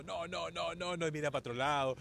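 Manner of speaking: loud, teasing imitation of someone dodging questions; mock reluctant interviewee. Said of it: "mirá cómo habla así todo".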